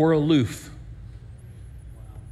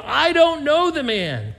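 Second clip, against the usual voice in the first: higher, louder and slow, spitting it out; cursing denial; 5 semitones higher, 4 dB louder than usual. Acted. Peter swears to the bystanders, loud cursing denial. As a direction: swear it out with force. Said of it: "he began to call down curses".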